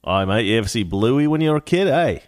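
hammed-up Aussie accent; terrible Australian accent. Shown as a demonstration. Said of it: "that's my terrible Australian accent".

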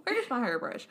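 put-on old lady voice through a laugh; a hint of a fussy granny. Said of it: "That's my old lady voice".

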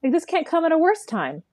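voicing her with a high whine, half-mocking; mock whiny voice. Host mimics the girlfriend complaining about her man, high mock whine. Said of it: "It's like".

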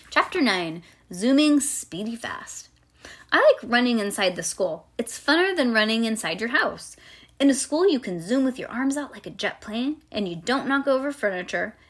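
put-on animated, childlike first-person storytelling; reading to children. A narrator's reading. Reading a chapter book to a child, animated storytelling. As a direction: read it aloud like a little girl telling her tale.

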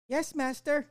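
very high robot servant voice; sexy robot voice. Pretend. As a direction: answer like an eager robot maid. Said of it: "the sexy robot voice".

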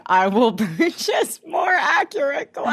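high, put-on polite voice with a laugh; mock-polite retort. Replying to a kid critic about glasses, high mock politeness. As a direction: pitch it way up in fake helpfulness.

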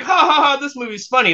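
high, mock carefree chuckle over the words, imitating himself; mock carefree laughing. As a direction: play it like a silly comedy with no dark side. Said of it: "what I saw on the plane was like".

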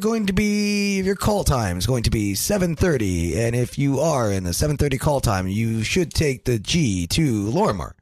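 stilted phone-announcement delivery; recorded hotline voice. Shown as a demonstration. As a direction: read it out like a hotline message. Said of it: "So that's how it sounds".

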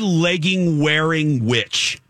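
slow, high, spat-out insult; mock insult. Daughter hurling insults at the woman in leggings. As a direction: drag out the name-calling. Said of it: "I was like".

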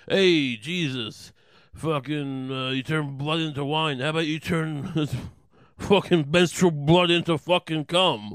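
hammed-up wise guy heckle with drawn-out words; Andrew Dice Clay. Judas heckles Jesus about his miracles, brash mock Dice voice. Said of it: "Andrew Dice fucking Iscariot".

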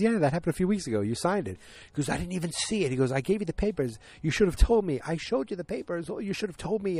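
high-pitched, animated back-and-forth argument; mock protesting, voice jumping high; retold bickering. Retold heated argument between boss, secretary.

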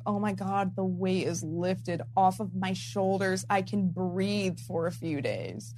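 low, soft, slowing sigh of relief; relieved. Retold or imitated. Sitting back after publishing her video, deeply relieved. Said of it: "I feel so good".

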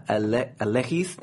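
hesitant Hispanic-accented first name. Shown as a demonstration. Attempting the next viewer's name on request, Hispanic accent. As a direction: try the name with Hispanic consonants and vowels. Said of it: "say their name in a Hispanic accent".

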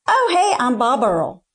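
put-on bouncy Southern good old boy greeting; good old boy accent. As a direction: imitate a flamboyant Southern waiter introducing himself. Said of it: "like, this good old boy accent".

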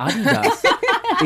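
Adidas said slowly, stress on the first syllable; German pronunciation of Adidas. Shown as a demonstration. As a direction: say Adidas the German way, AH-dee-das. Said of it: "proper way of saying it".

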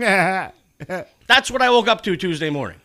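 loud, slow indignant rant; angry rant. Real, not acted. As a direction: spell out the grievance slowly. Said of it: "You're interrupting my rant".

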